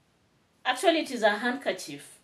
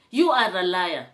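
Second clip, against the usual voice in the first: angry accusation; 2 semitones lower, 5 dB louder than usual. Real, not acted. Angrily accusing rival of lying.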